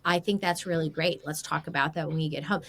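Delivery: a calm, kind voice note to defuse things; calm reassuring tone. Shown as a demonstration. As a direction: reassure them so they hear no anger. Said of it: "they can hear my tone".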